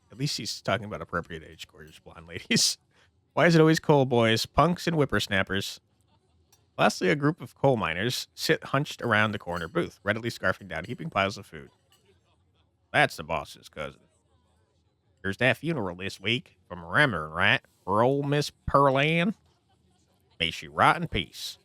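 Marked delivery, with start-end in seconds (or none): 3.3-5.8 put-on a touch louder old grouch; grumpy old man. Lonely old man grumbling about young strangers, mild old-man voice. 12.9-21.6 gruff miner. Acted. Coal miner gossips.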